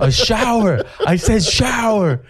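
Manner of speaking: high-pitched mock indignation; pissed-off retort. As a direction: insist on it, comically pissed off. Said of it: "I was pissed".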